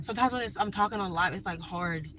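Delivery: breathless, talking while winded; out of breath from walking. Real, not acted. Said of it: "I'm out of breath".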